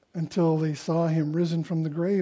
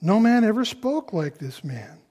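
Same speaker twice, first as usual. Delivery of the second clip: "man" given extra weight and a pitch swing; marvel, putting the emphasis on "man"; stress on man; 3 semitones higher than usual. Acted. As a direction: lean on "man" as the key word. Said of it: "emphasis on the word man".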